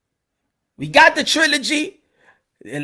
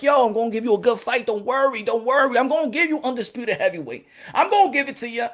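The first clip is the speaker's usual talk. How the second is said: mock smooth promise; 4 dB quieter than usual. Boxing promising fans.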